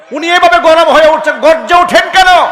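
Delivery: loud, high fiery sermon; preaching at full force. Real, not acted. Preacher defending loud scholars to the crowd, fiery and loud.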